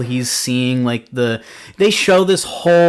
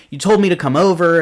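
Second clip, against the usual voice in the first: higher, louder mock panic; retold panicked protest; 6 semitones higher, 6 dB louder than usual. Reviewer voicing the scared girl protesting to Lewis, higher and louder. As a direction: blurt it like a scared girl defending herself.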